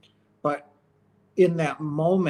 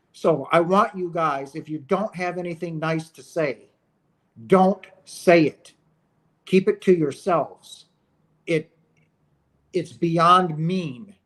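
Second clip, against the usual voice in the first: heated rant. Real, not acted. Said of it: "I know I'm on a little bit of a rant".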